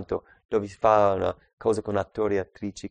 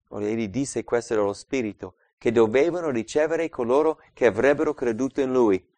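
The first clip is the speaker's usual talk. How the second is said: ordinary talk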